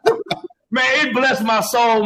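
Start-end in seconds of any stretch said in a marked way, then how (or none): 0.1-0.2 slow, drawn-out fake sob; mock crying. Host retelling watching the clip, mock teary. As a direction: stretch it out, laughing through tears. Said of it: "I was crying".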